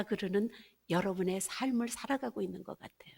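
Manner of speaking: hushed whisper to the listeners; sermon whisper. Acted. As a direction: draw them in with a whisper. Intimate point in a sermon.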